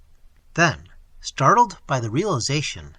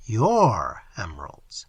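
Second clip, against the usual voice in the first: slow breathy monster whisper; slow whispered mock; 5 semitones lower, slower than usual. Entity mocks the moneylender's claim, slow whisper. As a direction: savour the words menacingly. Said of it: "said the entity".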